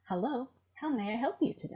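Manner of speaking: quick, polite phone-operator voice; chirpy customer service greeting. Shown as a demonstration. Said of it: "white customer service voice".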